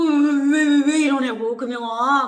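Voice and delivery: startled pastor crying out loud, high; alarmed shout. Retold or imitated. Pastor shouting in alarm at the girl's bruised face. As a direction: call out in alarm at the bruised girl.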